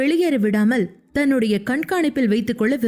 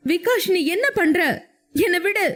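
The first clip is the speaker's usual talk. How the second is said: higher, frightened plea to let her go; frightened cry; 6 semitones higher than usual. A narrator's reading. Woman held by drunk man, frightened cry. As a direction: cry out in panic, but not full volume. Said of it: "என்று கத்த ஆரம்பித்தாள்".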